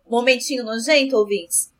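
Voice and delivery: ordinary delivery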